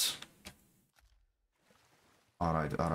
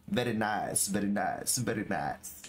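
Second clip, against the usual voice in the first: a light Kazakh-accented Borat imitation; 5 semitones lower than usual. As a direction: drawl the very nice like Borat, lightly. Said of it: "in my best Borat voice".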